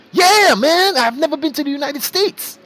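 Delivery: squeaky excited virus talking; high cartoon virus voice. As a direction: shout it high like a cartoon germ.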